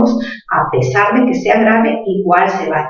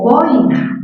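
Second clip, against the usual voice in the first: "boina" drawn out, stressed on BOI; correct stress on boina; 5 semitones higher than usual. Shown as a demonstration. Teacher models a word for her pupils, correct stress. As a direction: stretch BOI in "boina", two slow syllables. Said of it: "no se dice boina, sino boina".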